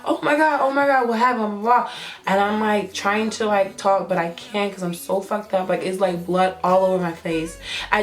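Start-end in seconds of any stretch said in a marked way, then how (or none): 0.0-1.9 higher-pitched mock panic, no real scream; retold panicked cry. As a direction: imitate a frantic friend without yelling. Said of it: "screaming, crying, like".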